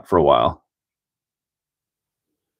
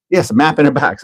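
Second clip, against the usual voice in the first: put-on Wisconsin accent; 5 semitones higher than usual. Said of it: "the lady's like".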